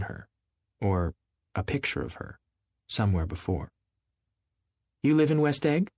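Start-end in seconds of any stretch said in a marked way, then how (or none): 5.0-5.9 high, louder scornful question; contemptuous. Acted. Miss Baker to Nick, high scornful question. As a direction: sneer at West Egg. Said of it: "she remarked contemptuously".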